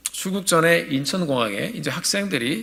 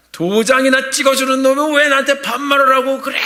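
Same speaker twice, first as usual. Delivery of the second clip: shouting back; 10 semitones higher, 7 dB louder than usual. Retold or imitated. Young man shouting back at the clerk, angry yell. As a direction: hurl the insult right back. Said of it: "같이 막 싸우는데요".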